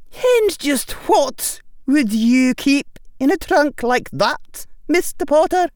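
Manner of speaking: high, loud, stern teacher's voice; stern witch professor. A narrator's reading. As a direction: speak like a strict old witch addressing a boy. McGonagall voiced by narrator.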